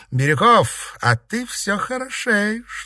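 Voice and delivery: teasing high-pitched coo; flirty Seraphima. Acted. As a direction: draw it out as playful flattery.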